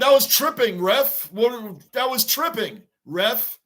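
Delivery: indignant call to the ref; pleading with the referee. Real, not acted. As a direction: protest the missed trip call. Complaining to referee at TV.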